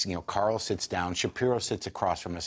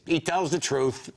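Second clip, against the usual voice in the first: slow, higher-pitched imitation; George; 7 semitones higher, slower than usual. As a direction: draw the verdict out slowly, pitched up. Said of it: "And George says".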